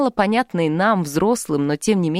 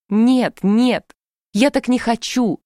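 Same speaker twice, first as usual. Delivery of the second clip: louder, higher protest; crying out; 5 semitones higher, 4 dB louder, slower than usual. A narrator's reading. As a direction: cry out in protest. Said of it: "беззвучно кричала я".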